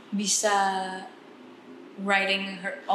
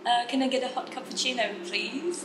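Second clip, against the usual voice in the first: put-on British accent; 3 semitones higher than usual. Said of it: "Atau kayak".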